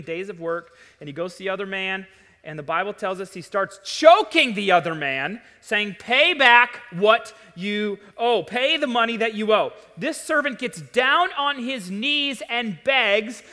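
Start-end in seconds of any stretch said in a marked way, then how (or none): 6.0-9.7 hammed-up angry creditor; mock demand. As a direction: bark the order at the debtor. Servant choking and demanding payment.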